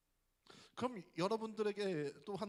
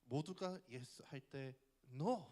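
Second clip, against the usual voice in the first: ad slogan; 3 semitones lower, much slower than usual. Retold or imitated. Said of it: "티비 광고에 어떤 광고가 있었냐면".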